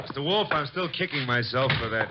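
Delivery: agitated self-reproach. Acted. Self-reproach on arriving back.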